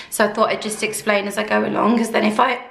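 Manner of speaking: a touch croaky, throat needing clearing. Real, not acted. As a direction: talk through a croaky throat. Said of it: "maybe I should with my croaky voice".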